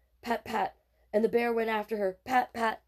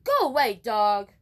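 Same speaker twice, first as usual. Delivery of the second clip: yelled; 3 semitones higher, 9 dB louder than usual. Acted. Boy shouting at a dog to leave. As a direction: shoo the dog away with a yell. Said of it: "Donovan yelled".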